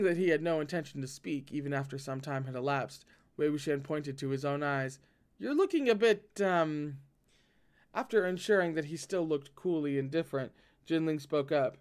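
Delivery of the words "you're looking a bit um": teasing. Acted. Teasing about dark circles.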